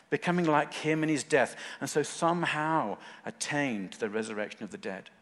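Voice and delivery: scripture read out with measured fervor; passionate reading. Acted. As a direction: lean earnestly into the key words of the reading. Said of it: "Can you hear the passion".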